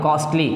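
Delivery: कॉस्टली opening on a hard K sound; C read as K. Shown as a demonstration. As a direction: pronounce कॉस्टली with its C as "ka". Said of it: "सी को का पढ़िएगा आप".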